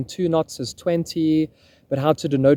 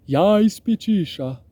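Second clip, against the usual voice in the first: slow, higher-pitched game-unit call; Age of Empires villager; 6 semitones higher, slower than usual. Retold or imitated. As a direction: imitate a video-game unit acknowledging an order, drawn out. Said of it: "Or like Age of Empires".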